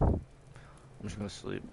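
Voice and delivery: very slow, sleepy drawl; slow and tired. Real, not acted. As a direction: drag the words out sleepily.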